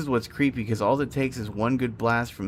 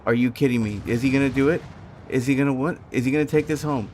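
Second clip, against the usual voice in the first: real hyped commentary on a live play; sports announcer; faster than usual. Real, not acted. Spectator asking if he'll take this home, sports-announcer hype. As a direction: call it like an excited sports announcer. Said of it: "I sound like a stupid sports announcer".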